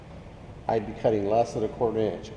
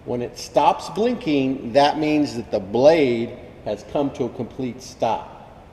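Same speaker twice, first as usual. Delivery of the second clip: shouting over table saw; 4 dB louder than usual. Real, not acted. Saw running, speaking over noise.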